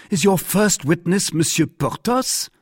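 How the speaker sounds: astonished, high-pitched question; astonishment. A narrator's reading. D'Artagnan asks his opponent about the first witness, astonished. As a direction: pitch jumps up in surprise. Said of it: "greater astonishment than before".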